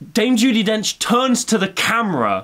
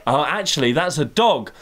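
lower, kindly correcting; gently voiced mum; 5 semitones lower than usual. Mum correcting her toddler, lower and gentle. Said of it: "And my mum went".

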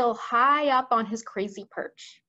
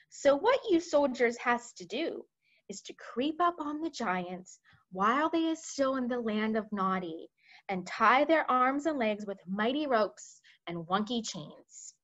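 BFG explaining his plan. Acted. Voices the BFG.

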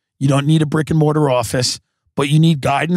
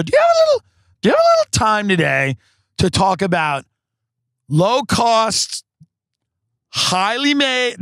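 high voice; 7 semitones higher than usual. Shown as a demonstration. Salesperson at a stranger's door, high voice. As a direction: pitch it up high and sweet for the doorstep. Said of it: "that's good if you do a high voice".

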